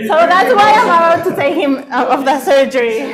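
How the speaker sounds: joking through laughter; laughing. Real, not acted. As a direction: laugh while teasing. Teasing nervous colleague, laughing.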